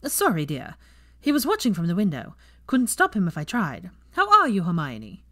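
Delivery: a brisk grandmother apologising; Andromeda. Acted. Andromeda apologising to Hermione, lightly voiced older woman.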